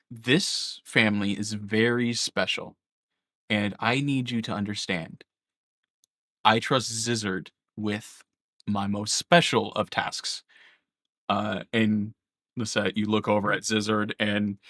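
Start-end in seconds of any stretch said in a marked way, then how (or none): 0.1-10.4 solemn. Acted. Mother charges party with grave task.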